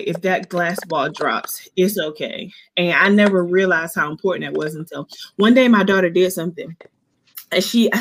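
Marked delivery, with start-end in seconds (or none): 0.0-2.5 gentle reassurance. Retold or imitated. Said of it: "sometimes we have to say".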